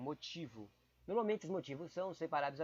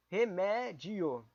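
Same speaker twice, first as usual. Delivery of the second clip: drawn out; 2 semitones higher, 3 dB louder, much slower than usual. Shown as a demonstration. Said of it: "A próxima".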